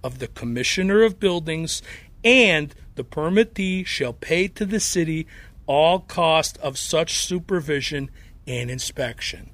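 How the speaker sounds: put-on reading dry legal text in a thick Chicago accent. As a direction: read the city code like a guy from the Northwest Side. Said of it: "in that Chicago accent".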